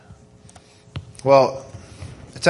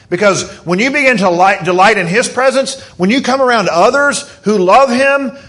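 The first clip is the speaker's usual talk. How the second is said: impassioned preaching, higher pitch; excited; 5 semitones higher, 3 dB louder than usual. Real, not acted. Preacher telling the congregation about delighting in His presence, excited. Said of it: "I'm getting a little excited".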